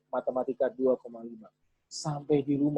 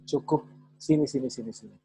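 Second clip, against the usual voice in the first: softening, fading call to come close; a parent's hushed "sini" as they open their arms; soothing beckon. Shown as a demonstration. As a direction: coax the child in gently. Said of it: "Cukup diam".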